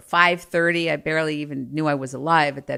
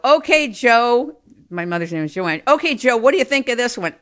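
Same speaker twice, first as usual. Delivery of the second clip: cheery father; 6 semitones higher, 4 dB louder than usual. Retold or imitated. Father voiced suggesting restaurants.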